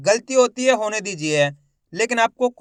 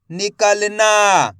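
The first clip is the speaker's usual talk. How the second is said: slow blended demo; 5 dB louder, much slower than usual. Shown as a demonstration. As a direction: draw the word out, syllable by syllable joined. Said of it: "शिक्षक शब्द जोड़कर पढ़ाता है". (धीरे-धीरे खींचकर पढ़ना)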